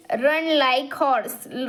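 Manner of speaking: put-on very slow, word by word, for young learners; slow reading. Shown as a demonstration. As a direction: read "Run like horse." out slowly and clearly. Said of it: "Run like horse म्हणजे काय?". (हळू, स्पष्ट वाचन)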